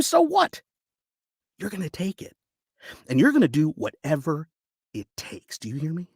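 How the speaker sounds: acted dramatic speech with heavy pauses; audition monologue. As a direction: urge them on bitterly, building in pitch and force.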